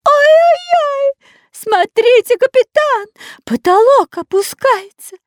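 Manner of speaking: very high, loud, slow wail of horror; terrified scream. A narrator's reading. The spy screams in horror to the captain. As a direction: shriek at the falling ceiling. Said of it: "С ужасом закричал шпион Дырка".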